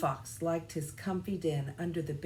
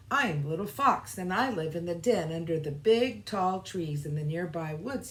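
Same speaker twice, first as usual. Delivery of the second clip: exclaiming; 4 dB louder than usual. Acted. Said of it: "he exclaimed".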